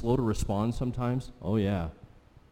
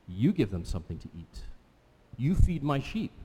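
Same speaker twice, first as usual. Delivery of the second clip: earnest charge; 3 semitones lower than usual. Retold or imitated. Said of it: "he says".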